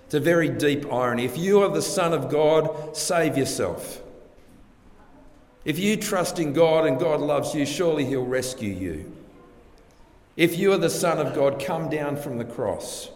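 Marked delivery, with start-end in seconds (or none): 1.2-4.0 higher, sneering dare; mocking taunt. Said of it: "They taunt Jesus". 5.6-9.1 higher sneer, sarcastic; mock his trust in God; mocking taunt. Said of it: "They taunt Jesus". 10.4-13.1 mocking taunt, stronger. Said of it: "They taunt Jesus".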